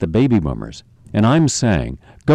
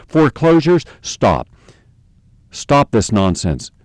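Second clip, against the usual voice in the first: forceful demand; slower than usual. Real, not acted. Host demanding banks stop foreclosures, forceful and slow. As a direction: command it to stop.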